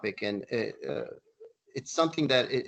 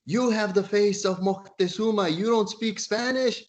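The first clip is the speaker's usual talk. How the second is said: much higher, louder incredulous outburst; exasperated disbelief; 9 semitones higher, 3 dB louder than usual. Retold or imitated. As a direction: act out his shock, high and loud. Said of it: "Ruiz is having a heart attack".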